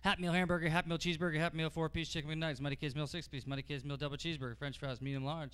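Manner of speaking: loud menu rattle. Acted. Rapid menu recital peaking.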